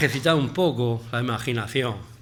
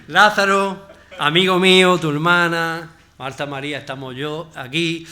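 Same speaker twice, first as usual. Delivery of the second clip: called-out plea; 6 dB louder than usual. Acted. Jesus at the tomb, pleading loudly then coaxing. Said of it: "imagínate esta escena".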